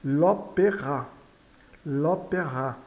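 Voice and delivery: "l'opéra" slowly, weight on the final A; "l'opéra" with accented final RA; stressed final vowel. Shown as a demonstration. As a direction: lean on the last vowel of "l'opéra". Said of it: "é carregada na acentuação".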